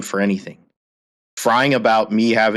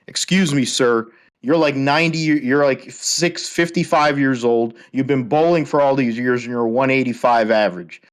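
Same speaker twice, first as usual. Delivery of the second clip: pitched-up sarcastic taunting; mocking challenge; 3 semitones higher than usual. Taunting the opponent's dad, mocking defiance. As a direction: talk down to him, daring him.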